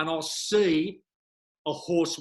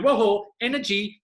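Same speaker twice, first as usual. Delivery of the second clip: slow, louder wide-eyed "whoa"; mock pancreas alarm; 7 semitones higher, 8 dB louder, slower than usual. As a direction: play the pancreas startled by sugar.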